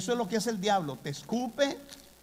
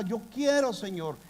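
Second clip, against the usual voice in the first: crying out; 5 semitones higher than usual. Retold or imitated. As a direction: cry out to the Lord in mild retold despair. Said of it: "Y yo lloraba".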